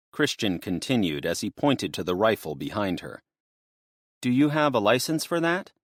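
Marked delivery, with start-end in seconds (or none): 4.2-5.7 higher, lightly voiced young woman; earnest worried young woman; a touch higher, anxious to get help. Destiny blurts a question.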